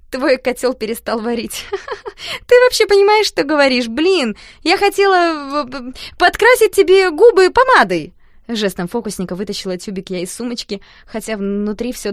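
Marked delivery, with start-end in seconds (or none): 0.1-8.1 much higher, loud, stumbling; girl covering embarrassment with bluster; flustered loud excuse. A narrator's reading. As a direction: blurt it out in a nervous rush.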